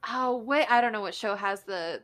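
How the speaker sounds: normal talking voice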